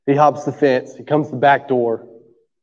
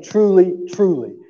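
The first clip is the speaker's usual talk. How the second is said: "Truly" raised then "truly" falling; emphatic; 3 semitones higher, slower than usual. Shown as a demonstration. Preacher demonstrating Jesus' emphasis to the congregation, stressed. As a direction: stress the doubled "Truly, truly" instead of yelling. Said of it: "putting some emphasis and some marks".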